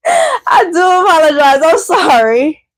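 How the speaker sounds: laughing through a sorry to a viewer; laughing apology. Real, not acted. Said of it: "if I said that in a disrespectful or rude way".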